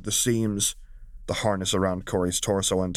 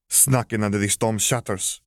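blithe reveal; 2 semitones higher than usual. Acted. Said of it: "Valmora revealed blithely".

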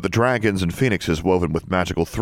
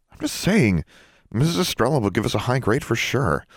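put-on lightly raised girlish voice, eager; a hint of an excited schoolgirl; Sonia; 6 semitones higher than usual. Sonia eagerly pitches in to Alexandra, lightly higher girl voice.

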